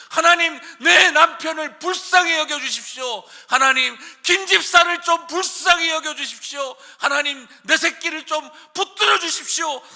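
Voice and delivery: very loud, high, pleading cry; desperate shouted prayer. Shown as a demonstration. Parent crying out to God for a child, shouting. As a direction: scream for your child's life. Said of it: "소리 지르고 온 힘을 다해 외쳐".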